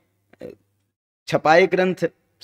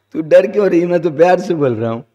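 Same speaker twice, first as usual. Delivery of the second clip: louder, blunt UP-style mock husband; rough rustic husband; 5 dB louder, faster than usual. Rough husband tells his frightened wife he speaks with love, louder and blunt. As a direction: bark it out as if kindly, but rough. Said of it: "ऐसी ठेठ भाषा में बोलता है".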